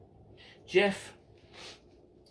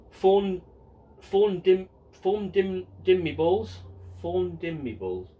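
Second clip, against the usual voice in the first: loud stumbling read; 4 semitones higher, 4 dB louder, slower than usual. Acted. Stumbling over rude shout-out name.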